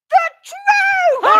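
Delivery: high, loud strained finish; forced shouted vow. Acted. Sam finally promising honesty, high forced shout. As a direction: push it out as a shout. Sam vows truth with effort.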